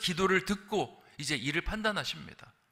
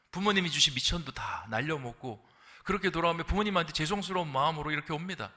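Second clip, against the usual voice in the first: ordinary delivery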